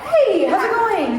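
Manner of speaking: friendly self in reenactment. Acted. Reenacting meeting a fan at the mall, chipper greeting. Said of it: "I'm gonna reenact this one".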